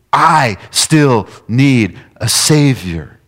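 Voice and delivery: loud, high preaching; preaching at full force. Acted. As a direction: preach it out with fervor.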